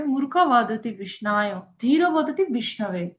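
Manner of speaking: slow, measured scripture recital; slow recitation. Shown as a demonstration. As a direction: recite the verse slowly, word by word. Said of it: "শ্লোকের reference দেওয়া আছে". (ধীরে ধীরে শ্লোক আবৃত্তি)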